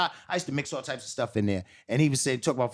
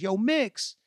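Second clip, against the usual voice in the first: calling out; 10 semitones higher than usual. Retold or imitated. Calling to Mix across street.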